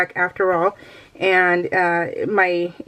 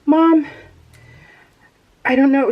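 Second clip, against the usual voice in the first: daughter's worry; 6 semitones higher, 4 dB louder than usual. Retold or imitated. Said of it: "so she's like".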